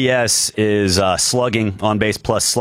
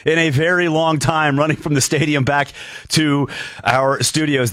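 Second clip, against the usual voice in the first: slightly winded radio host, pitched up; a little out of breath; 5 semitones higher than usual. Real, not acted. Host opening the show after running from the stadium, slightly out of breath. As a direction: talk on through mild breathlessness from a run. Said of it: "I'm a little out of breath".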